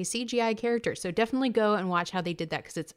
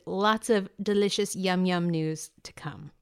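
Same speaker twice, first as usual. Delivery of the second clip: playful relish; 2 semitones lower than usual. Acted. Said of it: "I love that".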